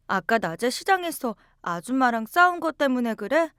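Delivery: put-on a child asking her mother, upset; a hint of a worried young girl; young daughter. Narrator voices child self.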